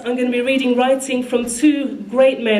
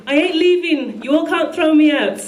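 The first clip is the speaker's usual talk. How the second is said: put-on higher-pitched protest in a rough Trinidad accent; mock-defiant, amateur Trinidad accent; attempted Trinidad accent; 5 semitones higher than usual. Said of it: "I can't do a Trinidad accent".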